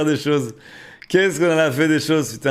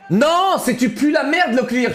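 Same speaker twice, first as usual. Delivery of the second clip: playful correction; 10 semitones higher, slower than usual. Real, not acted. Mocking correction, higher slower.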